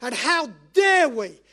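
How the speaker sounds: worked-up preacher's challenge, DARE leaping up; getting excited. Real, not acted. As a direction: challenge the congregation with real heat. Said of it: "I'm sorry I'm getting excited now".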